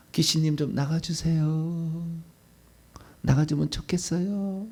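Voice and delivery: slow, soft, overly polite pleading; meek begging of a demon, drawn out; timid polite request. Shown as a demonstration. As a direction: ask the demon nicely, almost apologising. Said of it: "이렇게 해야 돼요".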